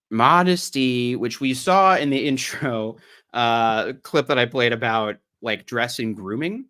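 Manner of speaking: a touch of Southern drawl on the vowels; slightly Southern accent. Real, not acted. Streamer reading about modesty to viewers, Southern accent slipping in. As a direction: read it with a light Southern lilt. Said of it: "A little too Southern".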